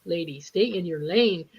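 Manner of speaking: slow, understated stay in your lane; lightly imitated comeback; mild mock retort. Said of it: "felt like turning around and saying".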